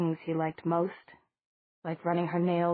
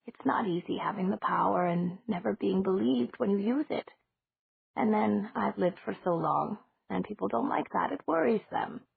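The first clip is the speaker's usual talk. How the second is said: lightly voiced old lady, musing; a gentle hint of an eccentric old woman; elderly landlady.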